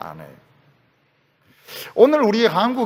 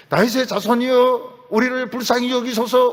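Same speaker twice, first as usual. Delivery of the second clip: crying out for mercy; 4 semitones higher, 3 dB louder than usual. Retold or imitated. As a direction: call out "다윗의 자손이여" as a pleading cry. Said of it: "소리를 지릅니다". (간절히 외치는 소리)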